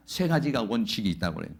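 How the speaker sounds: ordinary talk, nothing marked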